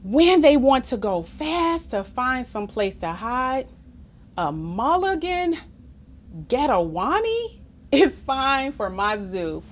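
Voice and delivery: measured, expressive picture-book reading; story narration. A narrator's reading. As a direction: read it aloud to children with clear phrasing. Reads story aloud.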